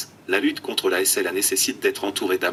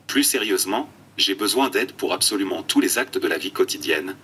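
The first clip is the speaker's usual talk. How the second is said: computer text-to-speech voice; flat synthetic speech from an eye-tracking tablet. Real, not acted. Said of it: "une tablette oculaire et une voix de synthèse". (voix de synthèse robotique)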